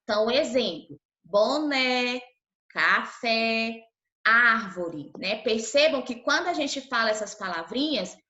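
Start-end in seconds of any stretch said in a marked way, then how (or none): 1.2-5.1 "boné, café, árvore" with open stressed vowels. Shown as a demonstration. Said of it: "o som da nossa boca sai, é, aberto". ("boné, café, árvore" com som aberto na sílaba tônica)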